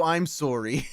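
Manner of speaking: amused put-on Canadian "sorry"; Canadian accent. Streamer apologises for doubting, playful Canadian accent. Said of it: "Why are you saying sorry like that?".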